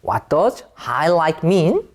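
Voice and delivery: slow, careful model of "What does highlight mean?"; correct question form. Shown as a demonstration. Teacher modelling the correct question for students, slow and careful. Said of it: "이렇게 쓰면 안 돼요".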